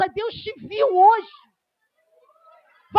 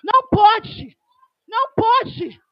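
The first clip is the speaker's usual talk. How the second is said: loud, emphatic pulpit preaching; fiery preaching; 4 dB louder than usual. Acted. Preacher rebuking a cold church, loud and emphatic. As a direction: preach it hard to the congregation. Pentecostal preacher at full force.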